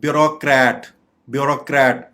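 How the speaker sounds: "ब्यूरोक्रेट" with open rok; correct pronunciation. Shown as a demonstration. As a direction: model "ब्यूरोक्रेट" as byu-rok-rat, repeated separately. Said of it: "correct pronunciation है".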